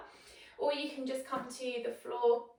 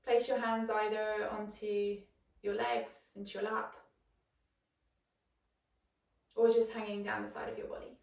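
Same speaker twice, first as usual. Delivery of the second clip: guided meditation. Acted. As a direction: settle them in gently, with long pauses. Settles listeners into meditation.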